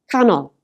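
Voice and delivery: Canol with "Can" emphasised; stress on first syllable. Shown as a demonstration. Teacher repeating a two-syllable example, Canol stressed on "Can". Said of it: "the emphasis is on the first syllable".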